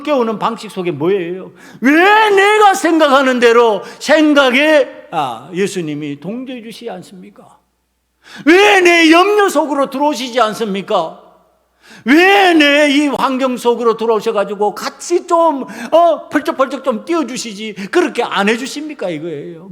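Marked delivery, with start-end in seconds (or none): 1.8-7.6 resentful protest. Acted. Believers questioning Jesus, angry demand. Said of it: "분노의 방식이고". 8.5-19.1 acted complaint, opening forceful then easing; resentful pleading. Believers asking Jesus to join them, indignant protest. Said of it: "분노의 방식이고".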